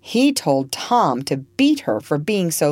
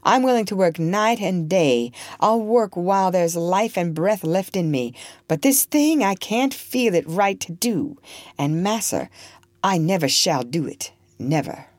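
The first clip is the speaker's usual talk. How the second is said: quiet respectful voice; 3 semitones higher than usual. Acted. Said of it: "Tom had a quiet, soft voice and a very respectful manner".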